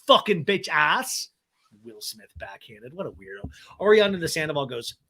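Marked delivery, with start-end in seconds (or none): 0.1-1.3 higher, slow mock outrage; mock scolding. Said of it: "And Ariana's like". 1.8-3.5 much lower, soft muttered aside; quiet aside. Real, not acted. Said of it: "aside muttered to self".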